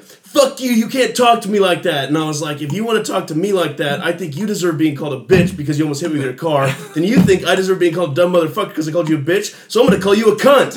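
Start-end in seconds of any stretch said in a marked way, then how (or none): 0.0-2.1 high-pitched mock outrage; angry outburst. Woman rebuking the man in parking lot, angry. Retold driver yells back. 2.6-10.7 building anger. Retold or imitated. Retold argument, builds to insult.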